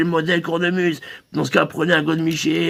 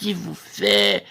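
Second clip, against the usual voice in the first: much lower and slow il vous fait; deep voice; 10 semitones lower, 4 dB quieter, slower than usual. Shown as a demonstration. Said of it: "vous lui faites".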